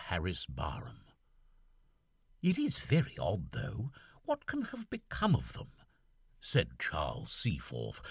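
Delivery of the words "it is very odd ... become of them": put-on raised, puzzled young officer; lightly voiced young gentleman puzzled; Seaforth's voice. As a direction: fret aloud as the lieutenant.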